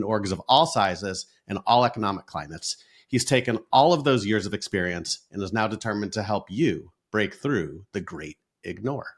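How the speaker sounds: smooth nighttime DJ delivery; late night radio dj. Acted. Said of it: "in that nighttime D J voice".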